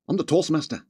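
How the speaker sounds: rough attempt at a Scottish accent; light mock-Scottish announcement. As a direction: put on a joking Scottish accent. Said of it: "Got a Scottish accent".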